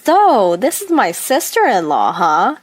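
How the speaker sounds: high, mocking young woman's voice, lightly done; snide, condescending teasing of the new sister-in-law; rude sister-in-law. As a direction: sneer it out like a spoiled younger sister. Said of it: "blatantly rude remarks".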